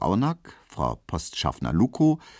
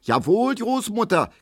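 shrieking woman; 13 semitones higher than usual. Acted. Frau Ziebland screeches at grandmother over the lost umbrella. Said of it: "kreischt Frau Ziebland".

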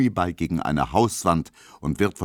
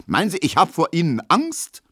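high-pitched angry challenge; heated defiance; 11 semitones higher, 4 dB louder than usual. A narrator's reading. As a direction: challenge him, worked up and red-faced. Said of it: "rot wie ein Puter". (trotzig und aufgebracht)

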